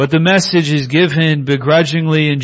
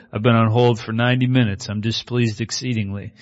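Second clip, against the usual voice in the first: mock-grumpy complaint; 3 dB quieter than usual. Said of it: "I'm gonna use that more often now".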